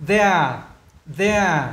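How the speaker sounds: there starting on a buzzed th; voiced TH. Shown as a demonstration. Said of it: "âm nó là âm này rồi". (đọc there với TH hữu thanh)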